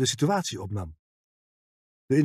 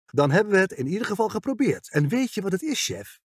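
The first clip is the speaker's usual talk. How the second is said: wereldwijs; 7 semitones higher than usual. A narrator's reading. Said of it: "Ze keek hem wereldwijs aan".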